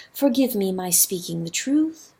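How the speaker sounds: mild, soft river voice; mildly. Acted. River speaking truth to rooster, mild and gentle. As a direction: say it gently, almost singing. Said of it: "sang the river mildly".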